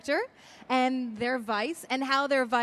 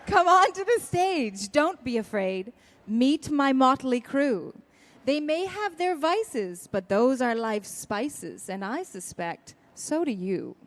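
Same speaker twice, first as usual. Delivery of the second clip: slow singsong rhyme reading; reading verse aloud; slower than usual. Acted. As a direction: savour each line of the rhyme. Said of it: "And it starts like this".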